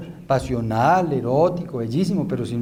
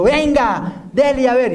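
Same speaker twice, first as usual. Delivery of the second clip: higher, louder goading dare; taunting challenge; 8 semitones higher, 4 dB louder, slower than usual. Retold or imitated. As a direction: egg him on to fight. Aggressor challenging the taxi driver. (desafío burlón, más agudo y fuerte)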